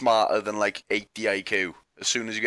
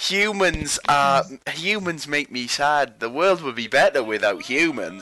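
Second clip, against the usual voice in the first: slow, higher gloomy robot voice; evil AI voice; 4 semitones higher, slower than usual. Retold or imitated. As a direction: drawl it like a brooding machine. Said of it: "they're gonna start thinking".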